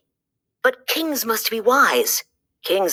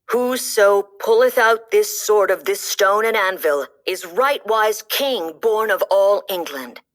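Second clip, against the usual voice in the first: solemn proclamation; 2 semitones higher than usual. A narrator's reading. Reading the sword's inscription.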